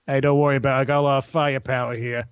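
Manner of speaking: lightly imitated Boston accent, dropped r's; botched Boston accent that slips toward Australian; bad Boston accent. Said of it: "he has a Boston accent".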